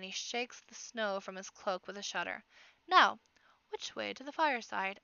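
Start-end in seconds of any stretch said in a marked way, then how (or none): 2.9-5.0 hushed, breathy question; whisper. Acted. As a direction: whisper it conspiratorially. Bard speaks in a whisper.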